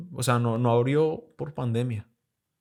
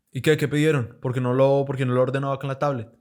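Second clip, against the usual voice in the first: annoyed boss; 3 dB louder than usual. Retold or imitated. Boss demanding why no order.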